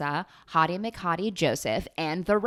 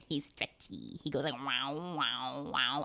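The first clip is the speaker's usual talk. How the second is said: goofy hero impression; 3 semitones lower, 6 dB quieter, slower than usual. Imitates stretchy hero.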